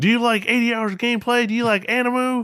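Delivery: high, fast pushy salesman pitch; car salesman voice. Retold or imitated. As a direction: hype it up like a sleazy car salesman. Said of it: "you sound like a car salesman right now".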